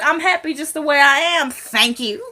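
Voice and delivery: high, emphatic mock huffiness; imitating an indignant no-thanks; defensive refusal. Retold refusal of a makeover.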